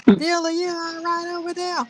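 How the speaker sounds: high fake redneck homeowner voice; redneck white guy. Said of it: "pretend like he's some redneck white guy".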